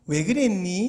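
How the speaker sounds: understated gentle inquiry; gentle question. Acted. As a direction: ask kindly without accusing. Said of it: "이렇게 부드럽게 안 물어보고".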